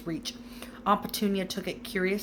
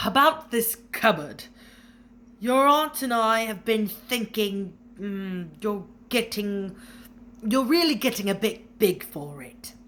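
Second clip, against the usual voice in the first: forced friendliness; 2 semitones higher, 5 dB louder than usual. A narrator's reading. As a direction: sound nice through gritted teeth. Vernon forcing a painful smile.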